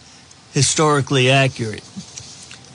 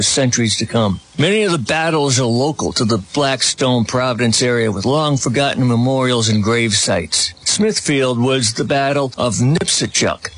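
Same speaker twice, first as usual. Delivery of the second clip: ad read; 2 semitones lower than usual. Acted. Radio host reading a sponsor spot for an author's book, steady ad-read voice.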